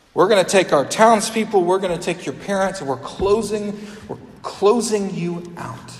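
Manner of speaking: mild mock Pharisee threat; stern expulsion. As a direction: announce the banishment with force. Pharisees expel the healed man.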